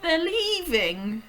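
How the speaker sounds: put-on high, loud, slow anguished child; high distressed little girl; breathless girl's cry. A narrator's reading. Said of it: "she cried".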